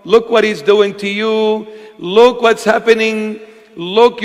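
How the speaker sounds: taunting, lightly sung-out whisper of doubt; a hint of a mocking tempter; voice of Satan. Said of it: "When you hear a voice in your head saying".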